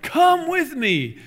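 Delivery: put-on high, loud, slow Australian accent; an enthusiastic Australian call to follow; stretched-out imitation of Steve Irwin's Australian accent; Steve Irwin impression. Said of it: "I can't do the Australian accent".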